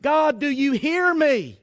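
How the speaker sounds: slow, acted plea to God; groaned plea. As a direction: stretch the words like someone begging to be heard. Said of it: "have you ever groaned and like".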